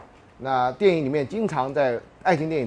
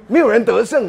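laughing; 8 semitones higher, 10 dB louder than usual. Real, not acted. Laughing at the anecdote's punchline.

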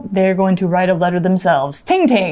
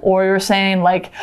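alarmed gasp. Shown as a demonstration. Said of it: "if you're warning somebody".

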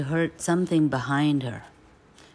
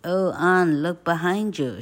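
put-on a touch of a boy's loud warning; louder call to look behind; shouting; 3 semitones higher, 5 dB louder than usual. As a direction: trick her with a shout. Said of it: "shouted Tom".

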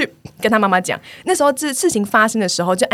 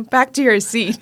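teacher command; slower than usual. Retold or imitated. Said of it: "那你说什么？".

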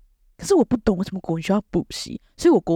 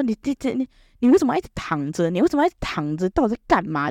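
scolding grandma; 3 semitones higher than usual. Retold or imitated. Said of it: "她讲说".

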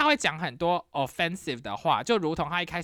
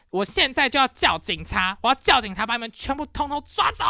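higher, heated threat; mock angry warning; retelling her threat to call the police; threatening to call police; 5 semitones higher, 3 dB louder than usual. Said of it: "我就说".

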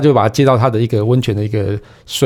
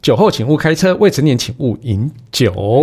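warning announcement. Shown as a demonstration. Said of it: "我要上警语".

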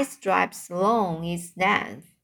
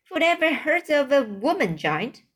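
mild giant shout; 6 semitones higher than usual. Acted. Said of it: "shouted the B F G".

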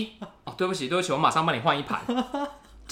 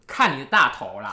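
put-on annoyed girlfriend; 6 dB louder than usual. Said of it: "女的就有点生气".

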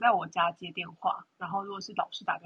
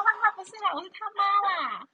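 higher, chirpy mom voice; 13 semitones higher, 6 dB louder than usual. Retold or imitated. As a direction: play the mom correcting them. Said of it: "我说".

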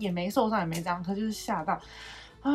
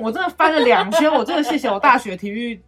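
laughing loudly; 6 semitones higher, 12 dB louder than usual. Real, not acted. Laughing about rolling on ground.

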